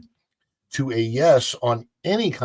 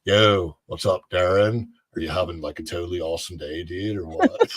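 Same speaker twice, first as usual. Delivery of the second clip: low, laid-back surfer dude; Darren O'Lean; 5 semitones lower than usual. Retold or imitated. Imitating a superfoods friend to his face, surfer dude. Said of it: "I've imitated him in front of him before".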